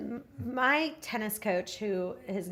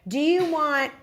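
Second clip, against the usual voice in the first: fussy questioning; 3 semitones higher, 6 dB louder than usual. Retold or imitated. Imitating fussy assistant.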